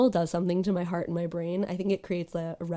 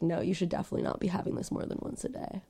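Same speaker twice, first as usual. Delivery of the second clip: mock whisper warning; 7 dB quieter, faster than usual. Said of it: "it was like".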